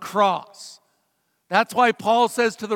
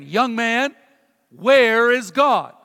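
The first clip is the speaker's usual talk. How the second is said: louder, drawn-out question; stern rabbi; 6 dB louder, much slower than usual. Retold or imitated. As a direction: imitate a rabbi pressing a child. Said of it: "Finally, he says again".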